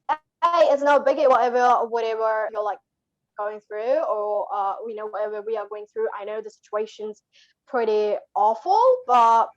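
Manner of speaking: a light Aussie accent, easygoing and matey; Australian accent. Shown as a demonstration. Guest cheers up listeners in Australian, a light Aussie accent.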